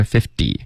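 "fifty" with a light dee ending; model fifty. Shown as a demonstration. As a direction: demonstrate first-syllable stress in "fifty". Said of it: "是五十，fifty".

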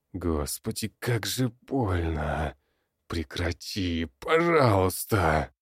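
slow, strained pain-wracked plea; agonised old man. A narrator's reading. Old man begs the goblin to stop, in pain. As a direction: beg through the pain.

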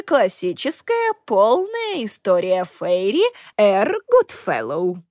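slow, voiced old fey librarian. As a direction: list the titles slowly like an old librarian. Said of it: "librarian lists the books".

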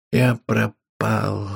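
very slow hushed admission; man alone, slow despair. Acted. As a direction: say it aloud to yourself, lost. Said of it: "вслух сказал Швунг".

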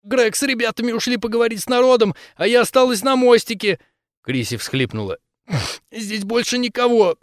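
high frightened captive pleading; panicked pleading. Acted. Captive pleading under interrogation.

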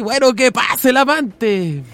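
slow, drawn-out host announcement; mock talk-show host. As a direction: call the lover in like a TV host. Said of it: "Laura presents the lover". (anunciando lento como presentadora de Laura)

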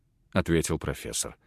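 ordinary delivery

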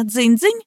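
little ringing imitation rising up; thin tinkling. A narrator's reading. Narrator mimics breaking glass, tinkling. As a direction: chime it lightly and thinly. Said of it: "тоненько прозвенело".

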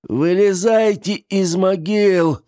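high, slow rasped call to the graves; hoarse call. Acted. The old man calls the dead from their graves, high and slow. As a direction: rasp out a summons to the dead. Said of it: "прохрипел старик".

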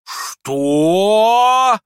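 very high, loud aghast cry; astonished horror. Acted. Mother to the prince, aghast outrage. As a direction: gasp it in outrage. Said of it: "в удивлении, в негодовании, в ужасе".

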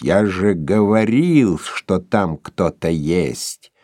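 ordinary delivery, nothing marked

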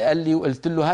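"قال لي وقلت له" with glottal stops for q; qaf as hamza. Shown as a demonstration. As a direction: say "قال لي" as 'al-li. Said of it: "قلب القاف همزة".

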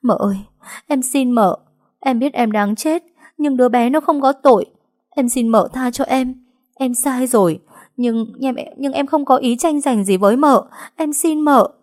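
high, loud desperate begging; terrified pleading. Acted. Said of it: "sợ hãi run rẩy chắp hai tay van xin". (Trúc van xin mợ trong sợ hãi)

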